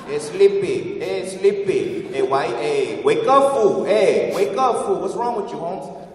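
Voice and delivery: hammed-up cholo hollering at a buddy; cholo taunting shout. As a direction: yell it like a teasing homie. Cholo friends calling out taunts.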